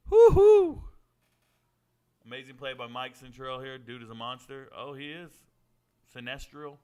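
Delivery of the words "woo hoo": very high, very loud cheer; loud celebratory woo-hoo. Real, not acted. Streamer cheering a huge play, loud whoop. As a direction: let out a big whoop.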